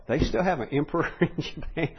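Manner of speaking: chuckling through the question; amused at his own ignorance; laughing disbelief. Retold or imitated. Recalling his amused surprise.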